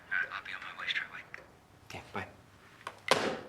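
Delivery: hushed, unvoiced phone whisper. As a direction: keep it secret, breathy.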